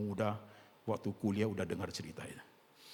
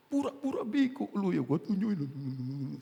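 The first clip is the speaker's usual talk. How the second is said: mock angry shout; 9 semitones higher, 6 dB louder, slower than usual. Imagined shouting at Judas.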